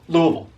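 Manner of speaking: "Louisville" thrown out as LOO-uh-vul; tossed-off local pronunciation. Shown as a demonstration. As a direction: toss out "Louisville" as one loose word. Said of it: "Like you're just throwing a ball".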